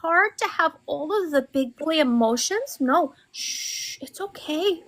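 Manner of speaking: mock soothing, like calming a toddler; patronizing gentle coo. Mock soothing a grown man.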